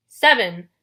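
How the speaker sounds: loud, falling monster word; haggling Cyclops. A narrator's reading. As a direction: boom it with a drop in pitch. Cyclops repeats the bride's number.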